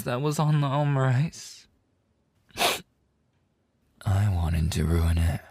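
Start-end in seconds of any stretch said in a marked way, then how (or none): 4.0-5.4 whisper. Acted.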